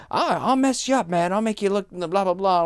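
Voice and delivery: loud, high-pitched imitation of threats; mock threatening. Imitating a man threatening the front desk, loud bluster. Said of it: "he was making physical threats".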